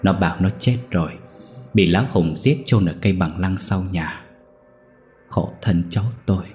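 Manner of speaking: a touch of grief, held back; mildly sorrowful, voice slightly unsteady; sorrowful trembling voice. Acted. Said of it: "âu sầu run giọng".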